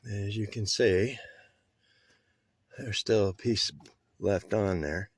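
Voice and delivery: breathing hard while talking; out of breath, lying cramped under dash; heavy breathing. Real, not acted. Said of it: "sorry, I'm breathing hard".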